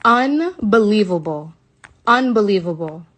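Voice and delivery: loud, furious disbelief at the date; real outrage. Real, not acted. Reading the test date to viewers, loud and outraged. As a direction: she can't believe what she's reading.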